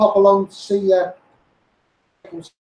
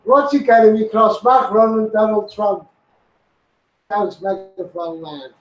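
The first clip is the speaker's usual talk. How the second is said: laughing. Real, not acted.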